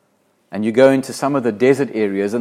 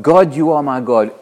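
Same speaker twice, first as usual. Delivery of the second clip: fervent declaration; 2 semitones higher, 6 dB louder than usual. Acted. Preacher reading psalm, repeated.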